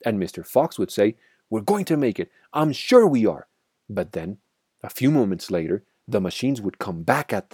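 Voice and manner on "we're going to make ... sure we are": higher voice, louder at the end; rally the family with hope; encouraging. A narrator's reading. Fox encouraging his family in flight.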